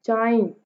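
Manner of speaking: जाइंट with strong जा and a falling finish; trochaic stress. Shown as a demonstration. Teacher gives trochee example, first syllable of जाइंट stressed. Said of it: "पहले वाला syllable stress है".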